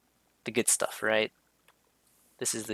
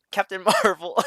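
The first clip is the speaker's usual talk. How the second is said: higher, louder, spitting the name out; disgusted; 8 semitones higher, 4 dB louder than usual. Shown as a demonstration. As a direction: say it like it tastes bad. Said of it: "That's disgusting".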